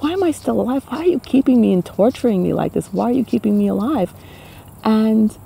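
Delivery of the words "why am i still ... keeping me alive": higher, pleading cry; crying out to God. Retold or imitated. Begging God to end it, higher and pleading. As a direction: plead to God, half-retold despair. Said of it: "I used to cry out to God".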